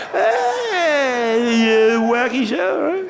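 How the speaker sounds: mock his own goofy nice-guy voice; jerk-off nice guy. Comic mocking how dorky he sounds to heckler, high chirp. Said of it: "The fucking jerk off I sound like".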